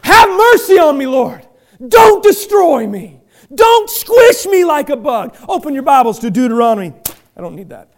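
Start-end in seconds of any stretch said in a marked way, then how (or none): 0.0-5.4 louder, slow pleading; crying out for mercy. Shown as a demonstration. A pastor begging God for mercy, loud and slow. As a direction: beg not to be crushed. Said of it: "we get to cry out".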